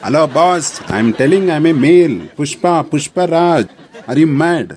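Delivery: angry protest. Acted. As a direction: insist hotly on being a man. Caller insists he is male.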